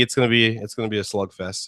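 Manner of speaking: dry sarcastic prediction. Acted. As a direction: say it deadpan, not meaning it. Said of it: "I'm saying sarcastically".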